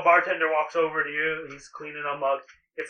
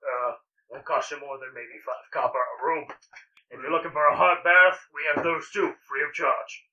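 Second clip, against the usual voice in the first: innkeeper offering rooms. Acted. GM voices the bartender.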